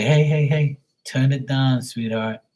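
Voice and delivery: retold playful interruption to calm them; playful intervention. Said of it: "when they get mad, I'll say".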